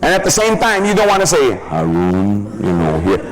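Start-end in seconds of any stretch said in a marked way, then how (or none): 1.7-3.2 put-on low, slow, spelled-out talk like to a child. Shown as a demonstration. Salesman talking down to a client as if he's an idiot. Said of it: "treat the guy like an idiot".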